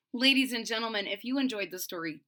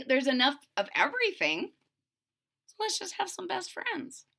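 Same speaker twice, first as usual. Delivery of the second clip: wife's voice; 5 semitones higher than usual. Retold or imitated. Wife voiced again in retelling.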